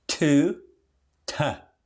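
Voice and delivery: full "To" then reduced "ta"; to becomes ta. Shown as a demonstration.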